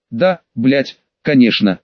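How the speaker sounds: usual speaking voice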